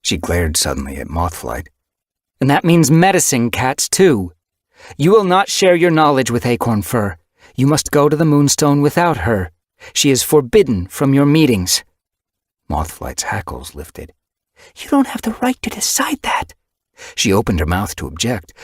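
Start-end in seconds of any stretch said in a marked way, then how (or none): 2.4-11.8 high, loud, forceful leader cat; commanding she-cat leader rallying the clans; stern clan leader. Acted. Windrunner forbids the medicine cats. 14.8-16.5 indignant objection. Acted. Mothflight objects to her mother.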